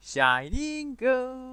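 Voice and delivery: high, loud, drawn-out anime cry; JoJo-style cry. Acted. Gamer mimics JoJo on spotting a shiny, hammed-up high cry. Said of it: "แบบโจโจ้ไง".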